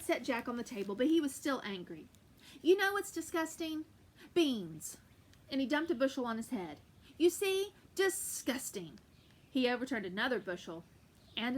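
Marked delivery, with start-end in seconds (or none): 2.6-5.0 angry giant. Acted. 7.2-9.0 scornful giant. Acted. Giant dumps beans.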